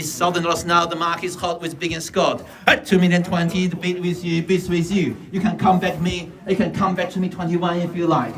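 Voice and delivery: auction bid spotter. Real, not acted. Auctioneer calling bids.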